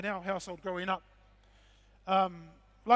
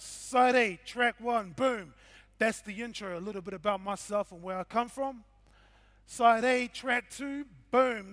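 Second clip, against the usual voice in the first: DJ announcer. Acted. Announcing tracks like a DJ.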